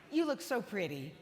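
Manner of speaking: laughing through a fake compliment; mock compliment laughing. Strangers seeing her without makeup, laughing mock compliment. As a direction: tease the polite lie. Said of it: "they say something that you know they don't mean".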